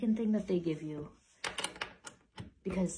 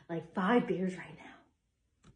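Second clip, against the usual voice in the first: drawn-out wish; 2 semitones lower, much slower than usual. Real, not acted. Exaggerated longing for beer.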